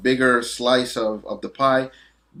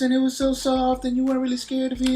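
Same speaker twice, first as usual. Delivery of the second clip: Anderson Silva impression; 12 semitones higher, faster than usual. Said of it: "he would talk like this".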